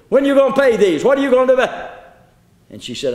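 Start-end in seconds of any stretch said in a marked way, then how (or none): 0.1-1.9 higher, sharp nagging demand; nagging wife. Acted. Wife confronting husband over unpaid bills, angry nagging. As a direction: chase him out to the car demanding money.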